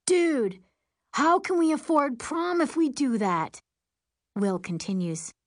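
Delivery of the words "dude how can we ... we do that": high, loud outraged voice; panicked, high-pitched protest; scream of protest. A narrator's reading. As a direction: cry it out in alarm, pitched way up. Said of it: "Bosch screams".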